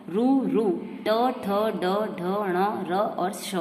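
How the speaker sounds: ट ठ ड ढ ण each sounded on its own, slowly; sounding out letters. Shown as a demonstration. Teacher to class, sounding cerebral letters slowly. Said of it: "मूर्धन्य जो उच्चार स्थान है वह है".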